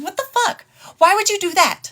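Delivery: retold shock, voice jumping high; shocked outburst. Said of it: "And I said".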